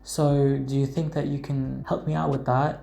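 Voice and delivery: English RP demo with fronted "so"; lightly put-on RP, British vowels; Received Pronunciation. Shown as a demonstration. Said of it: "which is received pronunciation".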